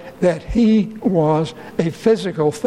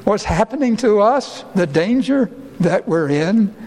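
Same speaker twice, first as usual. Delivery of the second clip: anguished plea; 4 semitones higher than usual. Retold or imitated. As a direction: plead for help in the middle of the storm. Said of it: "join together in this last question".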